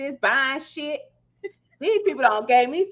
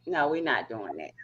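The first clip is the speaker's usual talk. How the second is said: weak after surgery; 13 semitones lower, 9 dB quieter than usual. Real, not acted. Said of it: "My stomach sore 'cause I wasn't even supposed to be talking".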